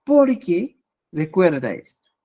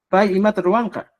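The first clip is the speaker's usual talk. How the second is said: Pai y mata ruanca said dry, without the N sound; blunt, matter-of-fact Pai y mata ruanca; cold plain question. Shown as a demonstration. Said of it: "mi expresión suena más seco, mi expresión es más fría".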